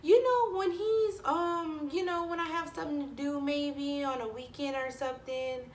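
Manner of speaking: high, sweet parent voice; quoting the parent. Retold or imitated. Daycare parent asking a favor, voiced high and light. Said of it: "she was like".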